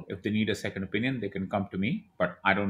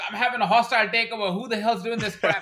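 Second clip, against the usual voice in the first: high, loud mock outrage like a Suits character; hammed-up TV drama boss; 11 semitones higher, 4 dB louder than usual. Founder spoofing a Suits scene to the host, hammed-up outrage. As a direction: play the betrayed executive in a legal drama, much higher. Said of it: "one of those episodes of Suits".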